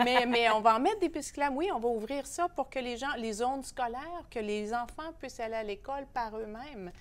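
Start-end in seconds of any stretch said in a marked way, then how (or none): 0.0-3.0 mock France French accent, louder. Guest imitates Paris mayor in France French accent, louder. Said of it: "elle l'a dit avec un accent français".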